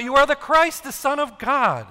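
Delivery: eager, high, loud outburst; blurting out. Retold or imitated. Peter reliving his confession, blurted out high and loud. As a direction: burst out with it, all conviction. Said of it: "I blurted out".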